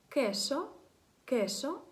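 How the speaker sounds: кешо вимовлено по-іспанськи; кешо, з чітким к і відкритим о; Spanish word queso. Shown as a demonstration. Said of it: "як бачите, ми записуємо Q U E S O". (іспанське кешо, повільно)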